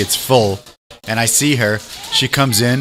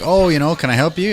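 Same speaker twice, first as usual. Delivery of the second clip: higher-pitched helpful waiter voice; polite offer of help; 5 semitones higher than usual. Acted.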